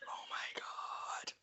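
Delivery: slow, whispered mock horror; retold aghast reaction. Imitating friends hearing the accent back there, whispered dismay. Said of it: "everybody's like".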